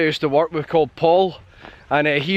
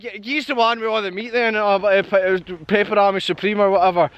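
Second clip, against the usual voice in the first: higher, rushed and stammering; flustered; 5 semitones higher than usual. Retold or imitated. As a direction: blurt the order in a fluster. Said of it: "So I got all flustered".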